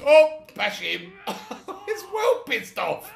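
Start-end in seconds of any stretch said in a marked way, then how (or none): 1.3-3.1 cracking up, high and slow; laughing. Real, not acted. Player repeating the joke about angry Trevor, laughing high. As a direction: squeal it through laughter.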